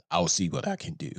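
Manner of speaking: dismissive mumble of a stock excuse; mocking empty promise. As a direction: drop low and soft, brushing it off.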